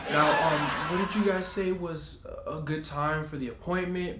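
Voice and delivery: laughing through the words, sheepish; nervous laughing sales pitch; awkward laugh. Retold or imitated. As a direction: laugh it off and push on. Steering back to the sale, laughing.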